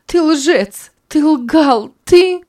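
shrieking accusation. Acted. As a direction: scream it at him until the words break off. Sanna's accusation breaks off.

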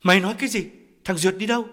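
shocked shout. A narrator's reading.

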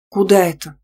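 mildly bewildered question; a touch of bewilderment; puzzled. A narrator's reading. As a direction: ask it in mild puzzlement. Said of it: "недоумевая, спросила я".

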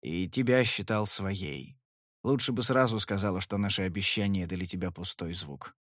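Sly wounded, bitter; bitter and muffled. Acted. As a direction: swallow the hurt. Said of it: "Глухо, сдавленно, с такой горечью".

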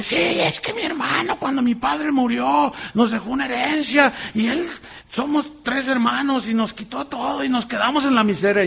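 put-on high, complaining voice of the old woman; bitter woman. Pastor voicing the woman telling of her brother, high and complaining. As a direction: whine about the stolen inheritance.

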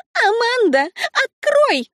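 очень высоко, громко и резко; требовать открыть дверь; требовательный крик. A narrator's reading. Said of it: "потребовала Лукреция". (требовательно крича)

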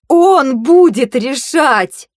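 very slow, loud, furious hissed exhale; hissed in fury. A narrator's reading. Vayu, furious, hisses at Tir, slow and loud. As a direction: force the words out through rage. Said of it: "выдохнула я со свистом".

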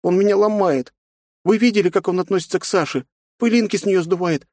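put-on high girl's voice, hurt complaint; a little girl pouring out her hurt; hurt young girl. A narrator's reading. Nastya complains to aunt about father.

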